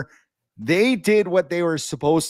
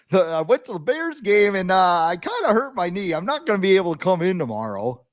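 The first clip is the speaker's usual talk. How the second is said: employee calling boss; 4 semitones higher than usual. Acted. Acted worker calling his boss.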